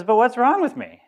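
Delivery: high, loud panicky cry of a patient on a stretcher; alarmed patient. Retold or imitated. Lecturer telling students a joke, voicing the alarmed patient, high and loud. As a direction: squeal it out like a man who is suddenly scared.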